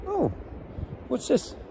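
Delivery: soft, high, curious murmur; intrigued. Retold or imitated. Dad luring son to a stick, soft curious. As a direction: lure the child's eye down. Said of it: "I basically went".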